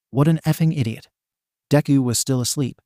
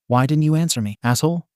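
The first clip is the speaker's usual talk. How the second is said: demanding; 3 semitones higher than usual. Acted. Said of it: "Bakugo demanded".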